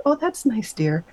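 pat-the-hand condescending nurse; a hint of a doting old lady; mild nurse voice. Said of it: "She's like".

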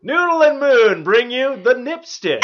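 loud, slow announcer pitch; infomercial. Pretend. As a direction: ham it up like a TV ad. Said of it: "we just made an infomercial".

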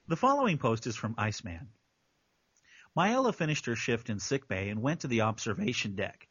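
low, composed reading voice; measured narrator take; story narration. Real, not acted. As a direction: read the post aloud, settled and low. Reads the story post aloud.

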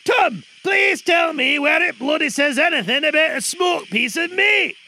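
exasperated director shouting; angry yelling. Real, not acted. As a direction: bellow at the cast in frustration.

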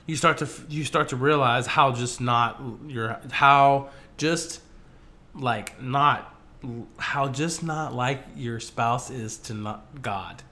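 stumbling and restarting over the phrase; tongue-tied. Real, not acted. Host fumbling the point about spouse and God, tongue-tied. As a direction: trip over the words, halting and regrouping. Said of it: "I can't say that right".

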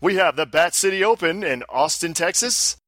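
booming ring announcer, hyping the crowd; fighting game announcer calling out choices. Shown as a demonstration. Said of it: "announcer voice".

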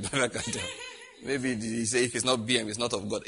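laughing through the words. Real, not acted. Pastor jokes about God's car choice, laughing. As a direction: chuckle while saying it. Joking about stubborn God.

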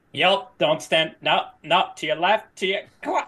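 urgent warning. Pretend. Tour guide warning tourist of an attack, mock alarm. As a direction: warn them in rising alarm.

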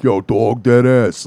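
imitating a pronounced New York accent; mock New York street-slang accent; strong New York accent. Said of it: "it's not as pronounced as".

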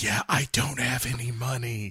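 Diana Rigg. Retold or imitated. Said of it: "I like Diana Rigg being like".

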